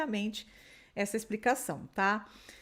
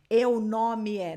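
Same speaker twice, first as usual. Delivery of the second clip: slow, louder mock mistake eu nome é; mock wrong phrase; 6 dB louder, much slower than usual. Shown as a demonstration. Teacher mocking the learner's literal mistake. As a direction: show the error with a wink. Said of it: "Você não fala".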